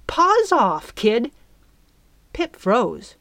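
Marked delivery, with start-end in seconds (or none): 0.0-1.3 high, loud command; sharp warning. A narrator's reading. Fairy to startled girl, sharp warning. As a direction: order the kid off, high and forceful.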